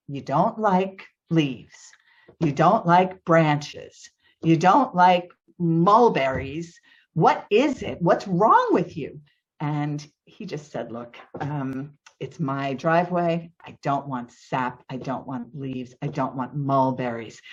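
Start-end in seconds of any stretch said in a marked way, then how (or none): 0.1-9.2 retold scolding, each item punched out; exasperated challenge. Homeowner confronting neighbor over his dislikes, exasperated. 10.9-17.4 imitating a stubborn neighbor, low and subdued; lower, softer list of objections; curt refusal. Neighbor shutting down homeowner before restarting chainsaw, curt.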